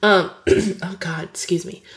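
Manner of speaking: coughing, choking on a drink; choking on coffee. Real, not acted. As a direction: clear the throat, half choking. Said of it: "choking on my coffee".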